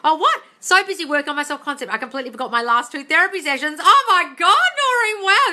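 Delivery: high, loud amazement building to a cry; thrilled. Real, not acted. Coach rereading listener's news about skipped therapy, thrilled. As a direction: read it out with mounting delight.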